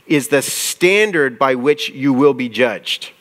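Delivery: slow, deliberate verse reading; slow solemn scripture quote. Shown as a demonstration. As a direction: read the verse slowly to the congregation. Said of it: "He says this".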